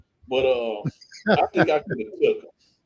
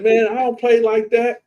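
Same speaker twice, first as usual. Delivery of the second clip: louder, higher, confrontational; tough warning; 8 semitones higher, 6 dB louder than usual. Retold or imitated. Telling Paco off after the fight, tough. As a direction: snap back like you're ready to fight. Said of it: "I said".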